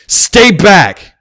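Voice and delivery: high, loud shouted command; a panicked colt commanding a stallion to stop. Acted. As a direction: bark the order to keep him away. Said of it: "Bucky commanded".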